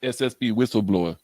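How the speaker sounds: lightly put-on Russian accent; mock Russian accent. Co-host trying out the title in a mock Russian accent. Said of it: "say it with a Russian accent".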